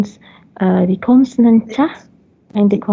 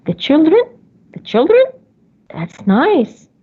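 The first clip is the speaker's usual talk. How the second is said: echoing listener; 5 semitones higher than usual. Shown as a demonstration. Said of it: "you're going to echo".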